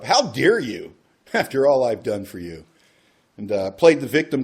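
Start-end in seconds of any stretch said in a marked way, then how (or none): 0.0-2.6 alcoholic bluster. Retold or imitated. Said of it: "I got the alcoholic bluster up".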